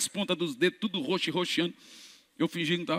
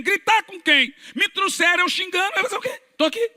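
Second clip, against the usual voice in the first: much higher, louder complaining voice; sullen man's voice; 13 semitones higher, 3 dB louder than usual. Retold or imitated. Wheelchair man to the preacher, high mock whine. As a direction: whine like a dragged-in tough guy.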